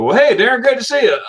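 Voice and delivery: high, bright mock welcome; imitated cheery acquaintance; hearty greeting. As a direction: play the friend slapping his arm hello. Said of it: "they go".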